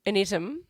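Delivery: "item" said "ITT-um"; "item" mispronounced to start like "it"; misread item. Retold or imitated. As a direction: copy the misreading, short "i" in "item". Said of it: "tell that story".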